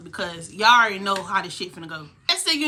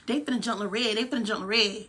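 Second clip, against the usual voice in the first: mocking panic; 6 dB quieter than usual. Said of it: "You were just running around".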